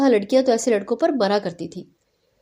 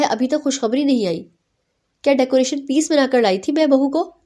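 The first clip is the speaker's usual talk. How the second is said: playful fake scolding, a bit raised at the peaks; a mother pretending to be cross; mock annoyance; 2 semitones higher than usual. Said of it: "مصنوعی ناراضگی دکھاتے ہوئے". (ماں کی مصنوعی ناراضگی، ہلکی سی ڈانٹ)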